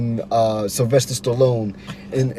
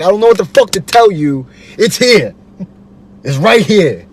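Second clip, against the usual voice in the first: frustrated retort; 5 semitones higher, 7 dB louder than usual. Retold or imitated.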